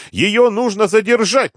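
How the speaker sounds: very high, loud, drawn-out demand; не унимается. A narrator's reading. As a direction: keep squealing, stretching the words. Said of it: "не унимался он". (протяжный высокий крик)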